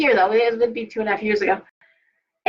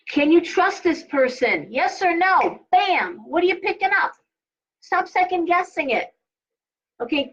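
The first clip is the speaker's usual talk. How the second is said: higher-pitched, insistent prodding questions; urgent coaching; 8 semitones higher than usual. Shown as a demonstration. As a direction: push them for an instant gut answer, pitched up. Urging listeners to read people instinctively.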